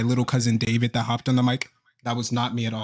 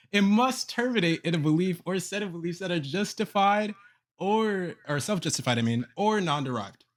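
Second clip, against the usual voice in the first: reading out a syllogism. Real, not acted. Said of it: "all you did was read out a syllogism".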